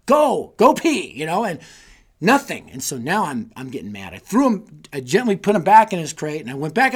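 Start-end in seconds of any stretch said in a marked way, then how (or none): 0.1-1.1 high, loud, drawn-out mock order; slow, playacted exasperated yell; exasperated command. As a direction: beg the dog at full comic frustration. Acting out pleading with stubborn dog.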